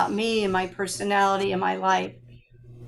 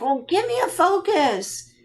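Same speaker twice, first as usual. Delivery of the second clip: higher-pitched, playful demand; mock demanding; 8 semitones higher than usual. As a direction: re-enact pressing him for specifics. Retells her eager request to astrologer.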